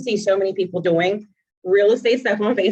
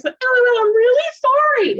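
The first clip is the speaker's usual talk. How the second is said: squeaky, sheepish apologizing voice, much higher; high mock apology; 5 dB louder, slower than usual. Voicing the troll apologizing in the comments, high sheepish squeak. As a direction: play the embarrassed troll caving in.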